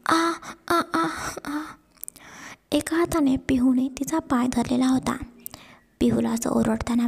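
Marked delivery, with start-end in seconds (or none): 0.1-1.6 a staged yelp of pain, partly breathy; mock cry of pain. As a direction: fake an 'aa, aa' hurt cry to fool him. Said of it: "पिहू जोरात ओरडते". (खोटं खोटं वेदनेचं ओरडणं)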